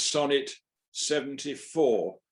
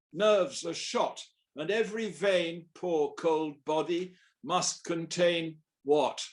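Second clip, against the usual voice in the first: poem recital; 2 semitones higher than usual. Acted. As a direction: declaim the verse line by line with dramatic pauses. Recites his Ronsard translation.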